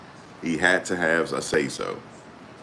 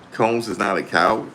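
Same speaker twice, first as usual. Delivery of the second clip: Combs impression; 4 semitones higher than usual. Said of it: "He said".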